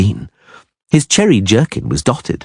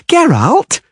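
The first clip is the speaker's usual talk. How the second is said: high, pained groaning call. Acted. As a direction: groan his name. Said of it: "Dandelion groaned".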